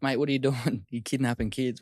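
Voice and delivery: high, loud incredulous yell, with a laugh breaking in; mock yell. Trainer confronting the cabbie, loud incredulous yell. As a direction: shout it at him, half laughing.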